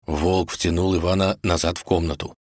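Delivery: ordinary delivery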